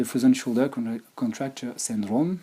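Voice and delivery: English words with a heavy French accent; frozen shoulder in a French accent. Real, not acted. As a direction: say the English term the French way, lightly self-mocking. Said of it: "excusez mon superbe accent anglais".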